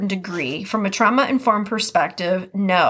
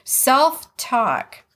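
Midwest accent; 4 semitones higher than usual. Shown as a demonstration. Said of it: "could I say that anymore with a Midwest accent".

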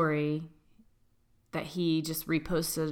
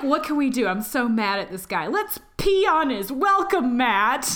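mocking voice; 7 semitones higher, 6 dB louder than usual. Mocking their younger selves.

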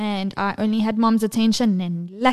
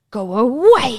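louder mock toddler dismissal; imitating rude toddler; 3 semitones higher, 6 dB louder than usual. Mom imitates son practicing in the car, rude toddler. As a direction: shoo someone off like a small child. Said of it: "and you'll go".

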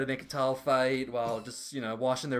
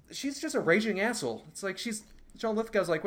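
usual speaking voice

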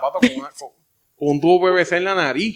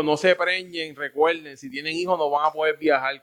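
ordinary delivery

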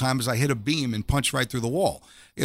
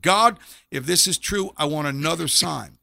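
pleading call; 2 semitones higher than usual. Retold or imitated. Repeating plea to God.

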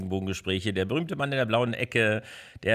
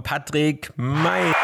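ring announcer; 5 semitones higher, slower than usual. Acted. Introducing guest like ring announcer.

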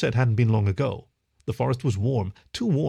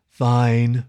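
huffy; 6 dB louder than usual. Acted. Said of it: "she huffed".

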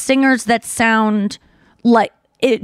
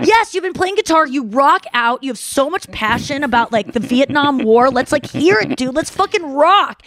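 lightly acted rock-fan enthusiasm; hyped-up friends; 3 semitones higher than usual. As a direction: egg your friend on, pitched up at first. Friends hyping up a singer.

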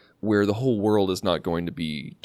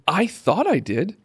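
sheepish admission; 11 semitones higher, 3 dB louder than usual. Real, not acted. Confessing disliking the episode.

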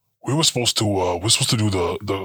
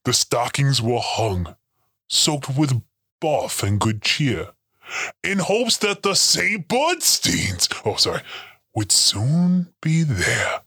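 slow storybook recital; story reading; 3 semitones higher, slower than usual. Acted. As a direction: read it like a bedtime poem. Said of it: "writing a little Christmas story".

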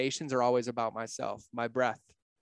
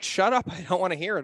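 raised-pitch mock scolding; wife's sharp interruption; 4 semitones higher than usual. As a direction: cut off the venting, imitating an exasperated wife. Wife cuts off his venting.

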